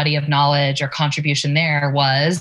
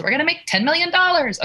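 mocking quote; 12 semitones higher, faster than usual. Mocking shallow money goals.

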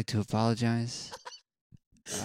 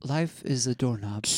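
guided meditation; slower than usual. Pretend. Leads a mock meditation.

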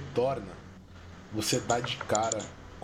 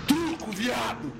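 shouted card call; 11 semitones higher, slower than usual. Acted. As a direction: yell it across the card table. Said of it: "ele escuta vindo da sala". (grito alto e arrastado)

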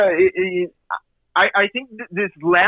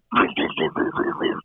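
Cookie Monster growl; 14 semitones lower, 4 dB quieter than usual. Retold or imitated. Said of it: "we call the angry Cookie Monster voice".

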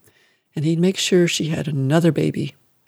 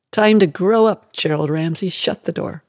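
cold harsh mother. Acted. Mother abandoning her son.

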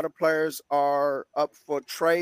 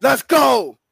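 hype shout; 7 semitones higher, 8 dB louder than usual. Acted. Hype call.

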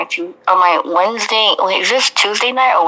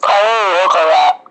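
voice cracking; 2 semitones lower, 3 dB louder than usual. Real, not acted. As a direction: voice breaking mid-phrase. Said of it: "my voice changes every five seconds".

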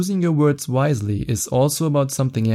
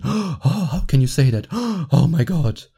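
higher, fake-scandalized gasping; mock shocked woman; 3 semitones higher than usual. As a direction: play the pretend outrage. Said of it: "That's often just pretended".

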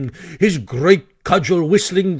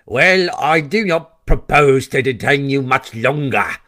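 speechmaking weasel; 2 semitones lower than usual. Acted.

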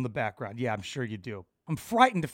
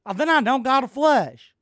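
mock quote; 8 semitones higher, 7 dB louder than usual. Imagined quote from cast member.

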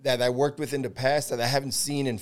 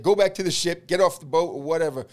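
louder and higher, ordering him off; mock yelled order; 3 semitones higher, 4 dB louder than usual. Boarding officer orders the assistant off the boat, loud. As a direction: shove the words at him like a command.

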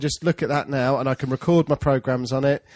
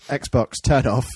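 slow, deliberate "Xbox, turn off"; slow command voice; much slower than usual. Real, not acted. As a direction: speak slowly to the console. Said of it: "just for the record".

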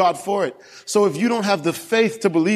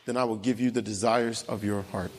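much softer, hushed promise; soft voice of God; 6 semitones lower, 9 dB quieter than usual. Retold or imitated. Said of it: "And God says".

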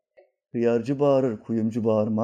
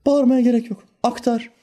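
emphatic; 10 semitones higher, 4 dB louder than usual. Real, not acted. Preacher exhorting.

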